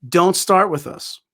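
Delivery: slow, firm retold warning; deliberate warning to an opponent. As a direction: lay it down word by word, slowly.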